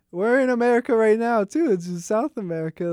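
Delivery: loud, high retort; indignant scolding. Retold or imitated. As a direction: snap it back indignantly. Brazilians scolding the mom.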